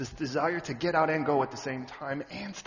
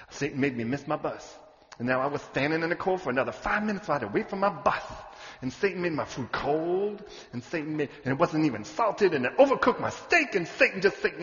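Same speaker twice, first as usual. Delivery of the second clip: mock complaining. Mimicking people who blame Satan.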